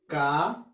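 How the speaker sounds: "Caótico" split ca - o - ti - co, pausing between syllables; "Caótico" in four detached syllables. Shown as a demonstration. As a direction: separate each syllable of "Caótico": ca, o, ti, co. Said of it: "Yo separaré así".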